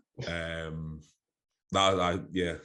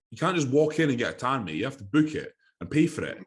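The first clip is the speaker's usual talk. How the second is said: mock scolding tanner; 5 semitones higher than usual. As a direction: scold him like a busy tanner.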